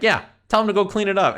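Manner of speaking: high, loud insistence; retold exasperated command; indignant demand.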